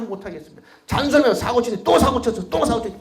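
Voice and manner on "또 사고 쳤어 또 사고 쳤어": a touch of a nagging elder, louder and higher; hammed-up nagging; mock scolding. Grandmother nagging the boy, mild mock scolding.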